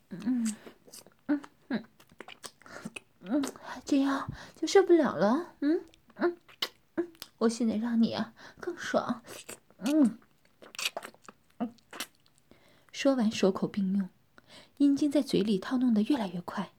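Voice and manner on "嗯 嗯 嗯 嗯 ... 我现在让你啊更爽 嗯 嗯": muffled teasing. Acted. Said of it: "边吞着阴茎边笑着说".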